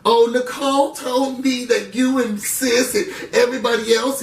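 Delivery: mock whiny Bella. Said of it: "Bella can't do that".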